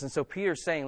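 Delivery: ordinary talk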